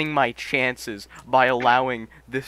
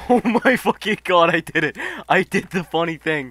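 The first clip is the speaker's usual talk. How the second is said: higher, louder burst of real triumph; excited disbelief; 4 semitones higher, 5 dB louder than usual. Real, not acted. Player who killed a boss with a Makarov, excited. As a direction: exclaim in amazed triumph, stretching the last words. Streamer thrilled at killing a boss.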